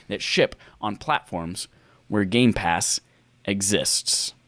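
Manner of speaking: measured, deliberate reading of a quote; deliberate quote reading with spaced pauses; slow read-out. Real, not acted. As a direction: read the statement out slowly, phrase by phrase. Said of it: "I'm going to read this slowly".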